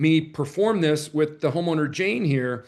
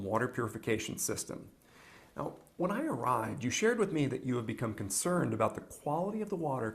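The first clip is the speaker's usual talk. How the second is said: recorded clip; 3 semitones lower, 11 dB quieter than usual. Acted. Played role play video.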